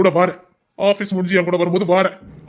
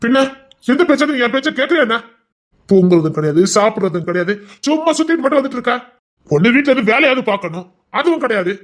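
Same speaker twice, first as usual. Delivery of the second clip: higher, complaining reproach; annoyed scolding; 5 semitones higher than usual. Acted. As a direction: nag her about everything she skips. Husband lists wife's faults. (கணவன் மனைவியைக் குறை சொல்லி எரிச்சலுடன் திட்டுகிறான்)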